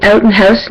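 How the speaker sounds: "out" and "house" in the speaker's own accent; "out and house" with the vowel friends find weird; own regional pronunciation. Shown as a demonstration. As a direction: say "out" and "house" your own way, unexaggerated. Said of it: "my friend thinks I say weird".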